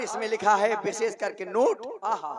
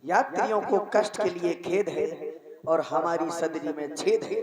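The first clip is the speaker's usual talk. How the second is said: over the intercom. Pretend. Mock railway station announcement.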